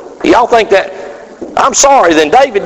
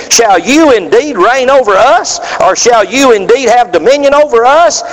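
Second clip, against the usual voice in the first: mocking brothers; 6 semitones higher than usual. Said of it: "his brethren said unto him".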